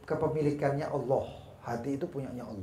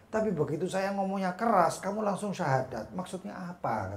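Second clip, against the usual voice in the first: baffled questioning; 4 semitones higher than usual. Retold or imitated. Puzzled Abu Yazid questions the convert.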